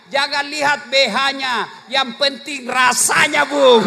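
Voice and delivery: slow, teasing wife's comeback, rising to a laughing shout; cheeky wife. Retold or imitated. Wife teasing her husband, slow then a laughing shout. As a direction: tease him, then burst out laughing.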